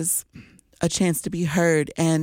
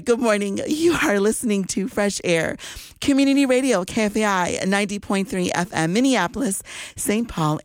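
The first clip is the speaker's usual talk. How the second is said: radio station ID; 3 semitones higher than usual. Acted. DJ Shimmer greeting listeners with an upbeat announcer read. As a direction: sell the station like a morning DJ.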